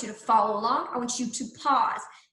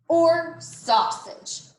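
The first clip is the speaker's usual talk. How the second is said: slow list ending; 5 semitones higher, 3 dB louder, much slower than usual. Shown as a demonstration. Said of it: "You can choose cheese".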